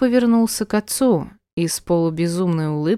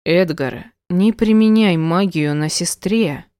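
sharp fatherly rebuke; stern rebuke. Acted. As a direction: cut him off firmly. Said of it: "одёрнул его король".

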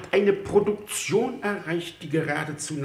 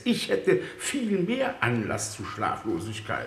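laughing; 5 semitones lower than usual. Acted. Minister jokes about his sleeplessness.

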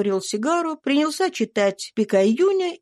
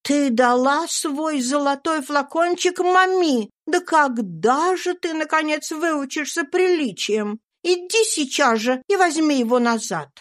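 impatient scolding; 8 semitones higher than usual. A narrator's reading. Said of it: "вскричала Мария, нетерпеливо топнув ногой". (мать нетерпеливо отчитывает дочь)

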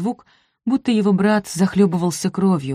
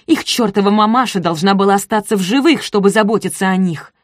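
higher, louder furious complaint; angry rant; 4 semitones higher, 6 dB louder than usual. A narrator's reading. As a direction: vent your fury at him. Kidnapper woman rants angrily. (злая тирада похитительницы)

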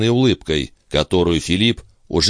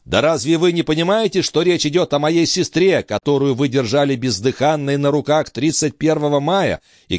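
outraged brother; 9 semitones higher than usual. Acted. Brother defending his sister's honour, furious high outcry. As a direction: hurl it at him in rage over the sister's honour.

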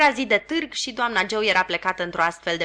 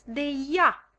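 slow, mild and courteous; polite; 6 semitones higher than usual. Acted. Joe politely answering his sharp wife. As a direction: say it gently, politely. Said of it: "remarcă Joe politicos".

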